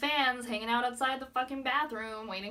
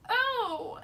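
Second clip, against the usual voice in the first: mock freaked-out idol; 8 dB louder than usual. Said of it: "he has this face like".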